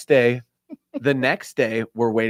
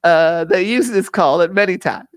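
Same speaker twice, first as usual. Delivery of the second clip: higher-pitched mock nature documentary narrator; David Attenborough; 7 semitones higher than usual. Explaining the Hoosier's paddle call, mock documentary narration. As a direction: explain animal behaviour like a wildlife presenter. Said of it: "I went into David Attenborough mode".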